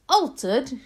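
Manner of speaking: loud, high, startled question; incredulous shout. A narrator's reading. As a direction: shout it back in disbelief. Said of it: "shouted Mister Jenkins".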